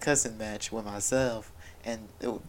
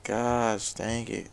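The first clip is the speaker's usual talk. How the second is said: louder exclaim; 4 dB louder, much slower than usual. Retold or imitated. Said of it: "I was saying".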